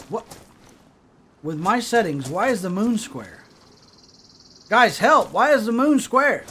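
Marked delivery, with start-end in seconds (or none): 4.7-6.4 raised, louder mock alarm; mock panic. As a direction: play at panicking and call for help. Mock panic at square moon.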